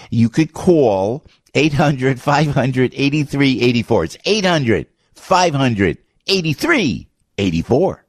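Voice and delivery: slow, deliberate New Jersey accent. Shown as a demonstration. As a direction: read the number in a thick New Jersey accent. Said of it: "with my New Jersey accent".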